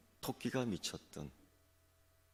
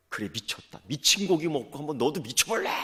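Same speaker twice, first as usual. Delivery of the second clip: rising to a louder challenge; defiant threat; 7 semitones higher, 8 dB louder than usual. Acted. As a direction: dare the tiger, getting fiercer. Rabbit threatens tiger. (미친 척 으르렁대는 토끼의 도발)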